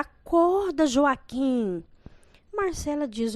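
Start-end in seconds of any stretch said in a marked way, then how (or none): 0.0-1.8 high, loud cry of his name; desperate shout. A narrator's reading. Bride yelling at Joaquim on the floor, high and loud. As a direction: scream for him to wake. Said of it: "Desesperada, Josefa grita".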